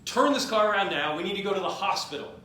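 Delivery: mock yell. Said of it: "he's yelling at him".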